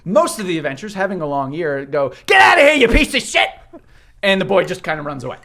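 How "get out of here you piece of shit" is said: high laughing yell; rude yell. Pretend. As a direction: throw him out with a shout. Adventurers yell at the boy.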